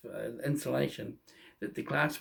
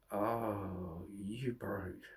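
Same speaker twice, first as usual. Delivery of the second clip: whispered thought; 4 semitones lower, 8 dB quieter, much slower than usual. Retold or imitated. Horrified inner thought.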